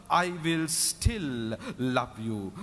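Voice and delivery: slow, weighted declaration of love; God speaking. Retold or imitated. God reassuring the drunkard in his heart, slow and emphatic. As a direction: draw it out as an unshakable promise. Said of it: "he heard the voice saying".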